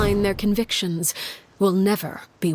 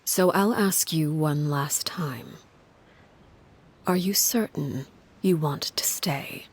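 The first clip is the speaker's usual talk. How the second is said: whisper; 3 semitones lower than usual. Acted. Father's final question to Lyney.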